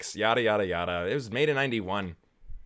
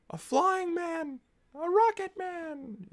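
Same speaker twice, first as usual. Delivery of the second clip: much higher, slow and soaring; dramatic title voice; slower than usual. Acted. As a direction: sing the hero's name in awe. Mock grand title voice.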